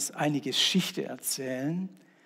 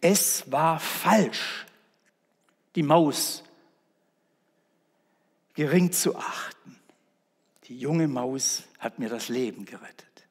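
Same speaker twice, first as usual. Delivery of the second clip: the proud king admits his error in a hush; lion confessing to the animals, whispered; humbled lion. Acted. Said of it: "schloss mit den Worten".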